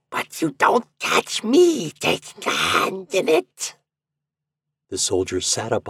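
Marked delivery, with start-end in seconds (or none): 0.1-3.7 very high, drawn-out shriek; piercing high refusal, slowly stretched; old woman's shriek. A narrator's reading. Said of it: "she shrieked".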